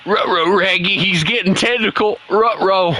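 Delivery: lightly voiced cartoon dog, strained; a hint of a straining cartoon dog; Scooby-Doo. Gamer mid-match voicing a cartoon dog, light strain. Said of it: "why do I make Scooby-Doo sound like he's straining".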